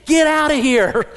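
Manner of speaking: loud, high, slow mock shout; exasperated nursery worker. Nursery worker to a hovering parent, exasperated mock yell. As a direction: shoo the parent away at full volume. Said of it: "the nursery worker's saying".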